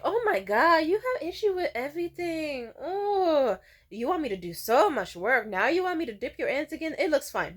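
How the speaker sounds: high, loud put-on griping with a groan; mock exasperated whining. Stylist balking at redipping the curls, mock exasperated. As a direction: overplay her fed-up outburst.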